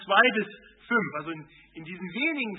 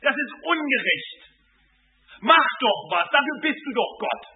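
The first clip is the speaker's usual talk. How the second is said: indignant complaint; 4 semitones higher, 4 dB louder than usual. Pretend. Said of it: "Er sagt nicht".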